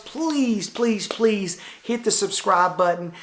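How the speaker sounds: drawn-out, high mock begging; playful pleading. Vlogger asking viewers to subscribe, playful pleading. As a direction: stretch and lift it like a playful beg.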